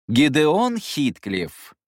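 stern, slow, loud full name. Acted. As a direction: call him out sternly. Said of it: "повысил голос Люмьер".

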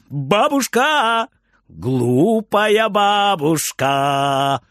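slow, deliberate, every word clear; loud and clear. A narrator's reading. Boy stands before granny and says it slowly and clearly. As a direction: pronounce each word slowly and plainly. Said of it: "громко и отчётливо".

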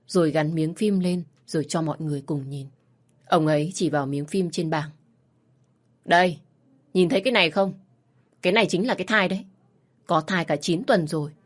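steady storytelling read for listeners; story narration. A narrator's reading. Host reading a listener's story, calm storytelling. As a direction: narrate the family drama evenly.

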